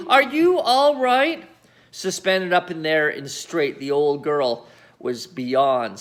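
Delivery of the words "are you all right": put-on polite boy's voice. A narrator's reading. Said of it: "George asked her politely".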